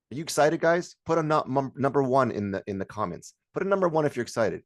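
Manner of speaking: high-energy host calling for responses; rallying the audience. Shown as a demonstration. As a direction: urge the viewers on with excited energy. Demonstrates rallying online audience.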